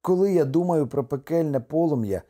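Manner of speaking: troubled husband's outburst; exclaiming. A narrator's reading. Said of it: "вигукнув Кеаве".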